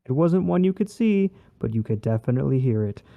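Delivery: newsy read with rising lift; news reporter voice. Shown as a demonstration. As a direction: read it like an anchor. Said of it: "read it like a news reporter".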